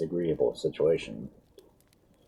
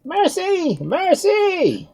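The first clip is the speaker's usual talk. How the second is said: very high desperate scream; screamed plea; 4 dB louder, much slower than usual. A narrator's reading. Doctor begging the soldiers, terrified scream. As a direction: beg for your life. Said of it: "screamed the doctor".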